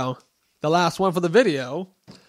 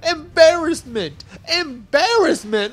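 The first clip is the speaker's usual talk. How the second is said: 1 mocking singsong; 10 semitones higher, 4 dB louder, slower than usual. Mocking the losing enemies.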